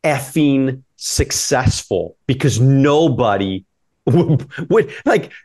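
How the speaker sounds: half-laughing, pumped up at the thought; building excitement, voice climbing high; excited realization. Retold or imitated. Excited inner thought retold.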